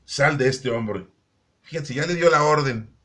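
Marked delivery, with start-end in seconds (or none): 0.1-1.1 slow, weighty order; measured, deliberate quoted command; retold command. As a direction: space the command out firmly. Jesus commanding the spirit, retold.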